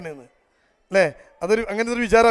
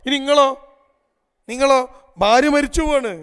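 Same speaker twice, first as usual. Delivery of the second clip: challenging question; 5 semitones higher, 5 dB louder than usual. Real, not acted. Speaker challenges husbands in audience.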